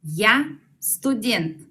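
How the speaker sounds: Я студент said very slowly, stress on я; very slow model. Shown as a demonstration. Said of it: "en ruso debo decir". (muy despacio)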